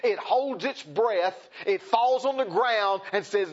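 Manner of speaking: drawn out very slowly. Acted. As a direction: stretch each word to show the stubborn flesh. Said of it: "you know what the flesh does?".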